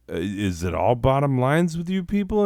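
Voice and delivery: mock-outraged challenge; exasperated retort. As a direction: scoff at them. Retorts to corporate.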